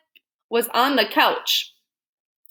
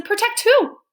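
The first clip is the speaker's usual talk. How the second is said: high, loud bewildered question; baffled question; puzzled; 12 semitones higher, 5 dB louder, slower than usual. Acted. Confused Mr Watson.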